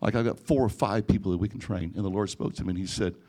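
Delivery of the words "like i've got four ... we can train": sarcastic. Retold or imitated. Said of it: "that was my response".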